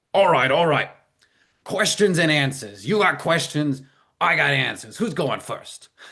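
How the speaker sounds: put-on strong Brooklyn accent. Retelling what a man said when he sat down, strong Brooklyn accent. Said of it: "He had this like really strong Brooklyn accent".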